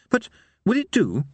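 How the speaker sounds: high, hesitant minstrel question; faraway, uncertain. A narrator's reading. Minstrel asking Harry's opinion of his music, faraway. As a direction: ask it dreamily, pitched well up. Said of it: "said the minstrel in a faraway voice".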